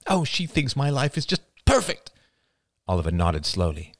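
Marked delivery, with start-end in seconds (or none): 0.1-2.1 high, sour bitter remark. Acted. Mother bitterly mocking her sister to her son. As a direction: spit out the sarcasm. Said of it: "Marie's voice was suddenly bitter".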